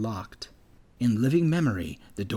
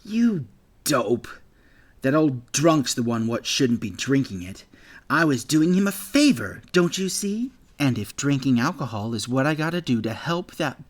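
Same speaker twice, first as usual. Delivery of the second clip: loud, higher mocking sneer; scornful bully; 4 semitones higher, 4 dB louder than usual. Bully Gale scoffing at Jack about the drunk, scornful and loud. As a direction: scoff at him like he's an idiot.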